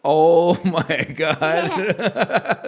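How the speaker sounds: high, laughing amazement; amazed laughing. Real, not acted. Dad stunned his little daughter can read, laughing high. Child reads aloud surprising him.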